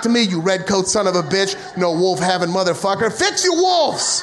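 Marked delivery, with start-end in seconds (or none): 3.1-4.2 laughing. Acted. Laughing end of wolf rant.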